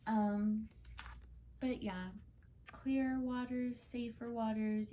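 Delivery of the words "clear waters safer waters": slow, gentle reassurance; slow soothing. Real, not acted. Psychic reassuring her viewer about the future, slow and soothing. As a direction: let the words settle slowly and calmly. Reader soothing client in reading.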